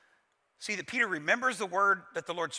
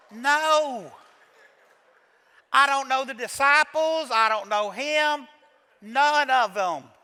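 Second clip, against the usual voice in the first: slow, loud, higher desperate shouting; desperate shouted denial; 4 semitones higher, 7 dB louder, slower than usual. Retold or imitated. Peter to the crowd who knew his accent, desperate shout. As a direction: yell it out, panicked and cornered.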